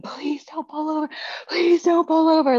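high, pleading mock scream; panicked screaming. Daughter gasping for air in the car, high panicked plea. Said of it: "she's screaming".

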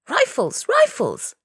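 loud, high call to arms; urgent shout. A narrator's reading. Tacksman calls the men to arms.

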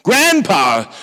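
put-on delighted toddler. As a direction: gently mimic a happy little boy. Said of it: "shrieked the delighted two-year-old".

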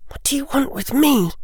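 put-on high girlish voice for Hermione; young girl's voice. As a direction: play the bright, bold schoolgirl.

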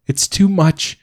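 high, tearful wail on "too"; crying. Acted. Mother overwhelmed to her husband, high tearful wail. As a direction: let the tears push "too" up high.

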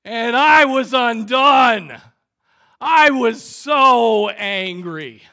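slow, booming, high-pitched exclamation; worked-up anger. Acted. Preacher confessing how angry he was, loud and worked up. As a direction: shout it out, stretching each stressed word. Preacher re-enacts his own fury.

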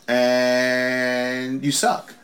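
slow, stretched-out sarcastic compliment; mock praise. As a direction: drag it out like sincere praise. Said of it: "This is positive".

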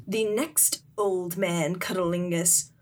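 slow, ominous narrator warning; mock-portentous storyteller voice; legend narration. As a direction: draw it out like a spooky tale's closing line. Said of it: "kind of the narration of".

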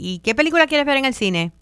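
lifted, inviting question; friend asking the group. Acted. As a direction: ask it lightly, as a friend making plans.

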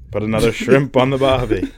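lightly voiced movie goof; a touch of mock Australian; Jim Carrey. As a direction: toss off a comic film quote. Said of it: "It sounds like Jim Carrey".

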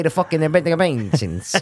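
mimicked New Jersey mobster, exaggerated endings; light imitation of a Jersey mob accent; Tony Soprano. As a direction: lean on the last syllable in a Jersey accent. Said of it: "exaggerates the ends of words".

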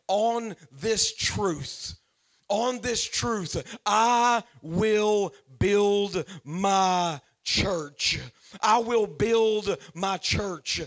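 slow, weighty words of Jesus; slow emphatic quote. Acted. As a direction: lay each word down slowly and heavily. Preacher voicing Jesus' words.

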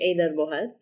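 Eidar Bohat said in Western Assyrian; Assyrian greeting. Shown as a demonstration. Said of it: "How do you say, "How are you?".

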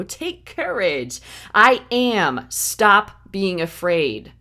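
slow, firm comfort to the frightened; calm commanding comfort; slow reassurance. Acted. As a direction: reassure them slowly and firmly. Voicing Jesus reassuring.

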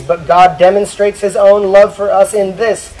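rising, projected Bible reading; Scripture reading. Acted. Preacher reads Romans on God's love, emphatic Scripture reading. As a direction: proclaim the verse with growing emphasis.

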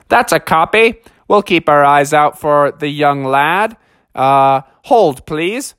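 lightly voiced dispatcher; a hint of official radio patter. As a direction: answer as over a police radio. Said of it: "radio person on the other end".

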